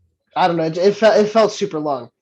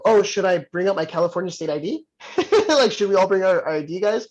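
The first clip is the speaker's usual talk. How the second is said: joking loudly; 3 semitones higher than usual. Retold or imitated. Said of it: "I just go".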